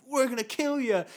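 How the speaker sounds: hammed-up monster menace; mock spooky threat. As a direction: threaten like a haunted ride villain. Voicing threats from the ride.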